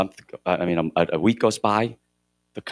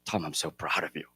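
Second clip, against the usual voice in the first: tender quiet words; 4 dB quieter than usual. Retold or imitated. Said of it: "in the quiet moments of the night".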